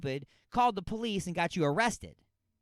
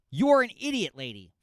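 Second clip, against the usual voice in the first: furious insult yelled; angry yell; 2 semitones higher, 8 dB louder than usual. Real, not acted. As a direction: blast her with it. Insulting the mother.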